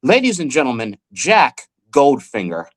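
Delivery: lightly voiced announcer, slowing on the name; imitated stage MC. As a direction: announce the act, drawing out the name. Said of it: "I hear the M C say".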